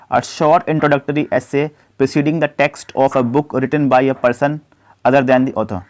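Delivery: slow, deliberate dictation of the question; slow question read-out. Acted. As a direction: read it out word by word for students. Reads quiz question slowly. (धीमी आवाज़ में प्रश्न पढ़ना)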